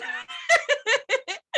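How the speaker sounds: high delighted burst of laughter. Real, not acted. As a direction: squeal with laughter. Delighted by favourite film moment.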